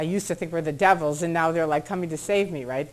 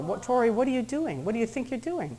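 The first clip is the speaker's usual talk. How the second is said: higher-pitched imitation of a confronting husband; demanding; 5 semitones higher, 3 dB quieter than usual. Husband confronting his wife in the airport, mildly demanding.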